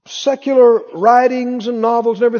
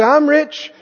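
higher-pitched, punchy rallying list; preaching confession; 5 semitones higher than usual. Shown as a demonstration. Preacher showing congregation what to say, declaring. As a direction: chant each claim like a rousing declaration. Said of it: "You need to say".

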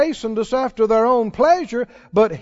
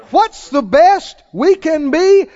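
emphatic repeat; 5 semitones higher, 5 dB louder, slower than usual. Shown as a demonstration. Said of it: "Is it true or not?".

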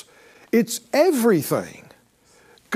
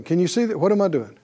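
usual speaking voice

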